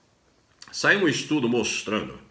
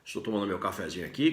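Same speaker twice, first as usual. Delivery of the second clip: usual speaking voice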